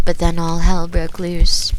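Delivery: usual speaking voice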